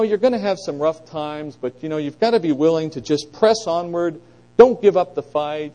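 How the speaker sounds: lightly voiced coach rallying the team, slowing on the last line; a hint of a cheesy locker-room pep talk; mock coach pep talk. Preacher mocking a flowery sermon as a coach's mild pep talk. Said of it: "sounds like a coach doing a pep talk".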